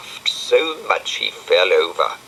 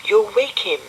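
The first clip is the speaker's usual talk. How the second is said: Florence voice; 13 semitones higher than usual. Acted. Florence's voice in story.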